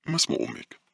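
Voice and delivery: understated friendly question; trying to sound friendly. A narrator's reading. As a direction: ask the child kindly, gently. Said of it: "حاولت باولا أن تبدو ودودة وهي تسأله".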